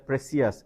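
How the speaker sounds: "প্রেসিয়াস" as "pre-see-as"; three syllables in "প্রেসিয়াস"; mispronounced. Shown as a demonstration. Teacher showing what many wrongly think, mispronounced. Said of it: "অনেকেই ভুল উচ্চারণ করে".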